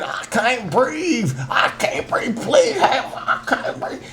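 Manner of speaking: strained, gasping plea, breaking into laughter; mock the choked cry, half laughing; a hammed-up I can't breathe, laugh bleeding through; imitating a choking plea.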